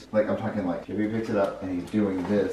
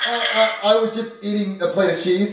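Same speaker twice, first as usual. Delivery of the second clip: high, flustered stammer; guilty kid character; 11 semitones higher, 5 dB louder than usual. Acted. Junior caught by the chef, stammering. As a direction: stammer out a cornered excuse.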